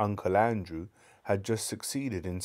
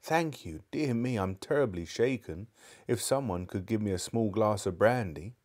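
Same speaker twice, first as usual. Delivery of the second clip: put-on faint shaken old man. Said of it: "in a faint voice".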